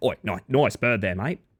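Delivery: matey Aussie voice, Australian accent. Greeting a chat member on stream, slipping into an Australian accent. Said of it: "It's turning me more Australian".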